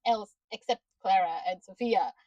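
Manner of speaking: frustrated fast rant at the screen; exasperated rant at the character. Retold or imitated. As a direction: scold him in disbelief. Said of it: "I'm like".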